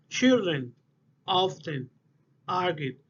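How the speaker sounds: put-on "Children", "often", "argue" each alone, stressed on first syllable and falling; stressed word by word. Shown as a demonstration. Teacher showing where stress lands, "Children", "often", "argue" each front-stressed and separate. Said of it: "we put more intonation".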